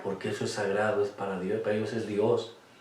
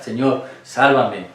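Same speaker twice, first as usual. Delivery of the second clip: pleading prayer; 2 semitones lower than usual. Shown as a demonstration. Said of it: "La oración más pequeña es esta". (oración suplicante que empieza fuerte y termina en voz baja)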